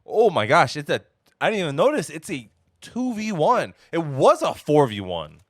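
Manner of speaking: loud, high, thrilled play-call; excited astonishment. Real, not acted. Caster realising the odds of the round, loud excited amazement.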